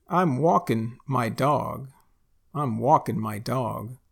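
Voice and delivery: "walking" said as walkin', "my" kept full; Texan walkin' in "walking"; dropped G. Shown as a demonstration. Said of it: "we say walking".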